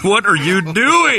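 high, drawn-out incredulous cry; mock disbelief. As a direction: stretch it out like you're appalled by someone's act. Acted shock at the impression.

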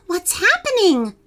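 high, frightened question after a gasp; shaky voice. A narrator's reading. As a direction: ask it in alarm, voice high. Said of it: "asked Sophie with a shaky voice".

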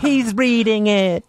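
stunned, drawn out; amazed listener. Pretend.

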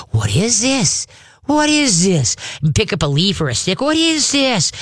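high excited what is this; mock curious. Shown as a demonstration. Trainer luring the dog with fake excitement. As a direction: sound thrilled by a leaf. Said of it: "point to, like, the ground and go".

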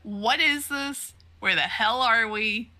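high-pitched retold disbelief; flipping out. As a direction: act out baffled, rising panic without shouting. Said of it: "he is finally flipping his shit too".

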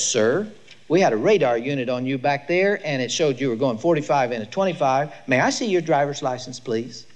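a polite officer, unhurried; calm policeman. Acted. Patrolman at the car window asking for the license, calm. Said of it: "He says this so calmly".

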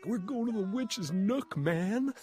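high, excited imitation of a pal; imitated enthusiasm, pitched well up; mock eager friend. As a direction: hype it up like an overkeen friend. Imitates eager friends dragging her along.

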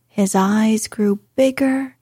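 ordinary delivery, nothing marked

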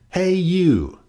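loud, high challenging call; grouchy call. A narrator's reading. Grouchy ladybug challenges an animal.

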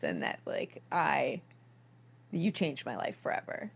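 choked, whispered confession; tearful whisper. Retold or imitated. Dad recalling his daughter's birth, a tearful whisper. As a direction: let the voice break into a hush. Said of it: "He broke down, he cried".

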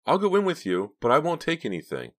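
high, loud character voice; resolved young woman. A narrator's reading. Driver telling the leader she'll join, resolved. Driver making her decision.

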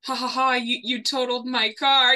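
mock laugh, lightly teasing; teasing laughter. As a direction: imitate his playful ribbing. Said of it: "teasing him".

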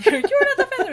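high, laughing jeer; mocking the Phantom while laughing; laughing mock heckle. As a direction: tease the villain through laughter.

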